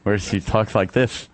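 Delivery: talking with a mock lisp, S turned to TH in "this"; terrible lisp. Co-host imitating how she talked as a child, lisping. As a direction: put a thick lisp on "this". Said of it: "When she had her terrible lisp".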